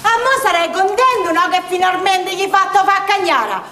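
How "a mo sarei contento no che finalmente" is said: scolding. Acted. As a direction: give him a proper telling-off. Mother scolding the man. (rimprovero acuto, finale lento)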